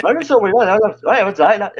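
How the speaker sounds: high-pitched imitation Cockney; put-on Cockney gabble; mock Cockney. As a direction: toss out baffling Cockney chatter. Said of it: "what people from Cockney are saying".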